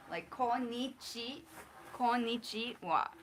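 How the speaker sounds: konnichiwa broken into slow syllables; konnichi, konnichiwa spelled out slowly; slow syllable demo. Shown as a demonstration. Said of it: "Ko ni".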